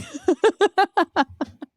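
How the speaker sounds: high, breathy giggle after a flub; burst of laughter. Real, not acted. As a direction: laugh it off, embarrassed. Laughing at her own stumble.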